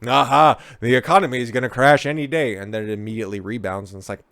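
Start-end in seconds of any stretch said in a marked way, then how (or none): 0.1-2.5 lightly voiced gloating forecaster, louder and quicker; mock triumphant pundit, a bit hammed up; big brain forecaster. Commentator mocking the forecasters' doom prediction, mock gloating. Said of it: "those big brain forecasters".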